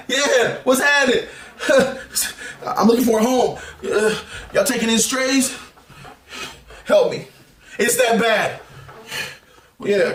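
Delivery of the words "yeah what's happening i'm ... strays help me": higher, giggling mock plea for a home; laughing plea. Fan begging X-Men to take him in, laughing. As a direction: beg for shelter while laughing.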